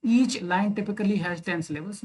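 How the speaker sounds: very slow, evenly spaced words; slow dictation. Shown as a demonstration. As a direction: dictate it so students can write. Dictating a definition.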